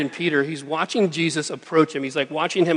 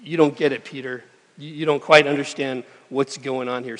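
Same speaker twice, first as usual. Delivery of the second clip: calm gentle Jesus. Retold or imitated. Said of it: "in his usual way".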